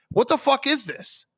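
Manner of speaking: bewildered, can't believe this course; baffled outburst. Real, not acted. Host ranting about shared greens, baffled high outburst.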